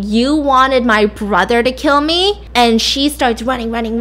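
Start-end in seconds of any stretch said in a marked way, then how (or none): 0.0-2.4 slow, drawn-out mock yell; retold screaming. Lars runs after her, retold screaming. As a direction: yell it mildly, stretching the words. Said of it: "comes running after her screaming".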